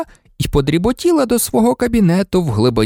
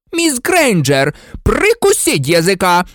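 furious reprimand; 8 semitones higher than usual. Acted. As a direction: silence an insolent pupil. Teacher furiously silences the girl.

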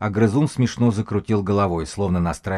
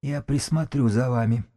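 high wheezy threat; higher-pitched hoarse menace; rattling, hoarse; 5 semitones higher than usual. A narrator's reading. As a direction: promise it in a high, rattling rasp. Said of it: "голос его дребезжал и хрипел".

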